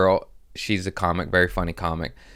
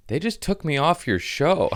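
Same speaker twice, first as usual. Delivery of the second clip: high-pitched retold grievance; mock complaint; 10 semitones higher than usual. Comic opener texting about being dropped, mock complaint. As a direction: read it as a higher, put-out friend. Retelling friend's hurt complaining text.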